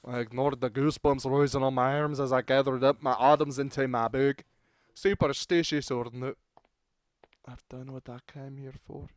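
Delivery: lightly put-on Scottish narration; Scottish accent. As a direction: read the story with a Scottish lilt. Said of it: "how to do the Scottish accent".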